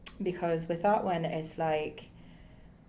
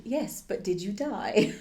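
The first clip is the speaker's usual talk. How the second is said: snooty character line; 3 semitones higher than usual. Acted. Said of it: "she was quite snooty about it".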